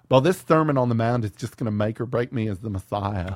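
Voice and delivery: lightly voiced Southern lady; effeminate Southern woman. Jesus fretting before the sermon, lightly effeminate Southern woman. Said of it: "sounded like an effeminate Southern woman".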